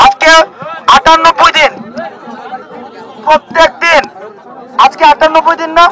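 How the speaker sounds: loud, emphatic plea to a crowd; impassioned appeal. Real, not acted. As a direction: drive each phrase home loudly, with pauses. (জোর গলায় আবেগভরা আবেদন)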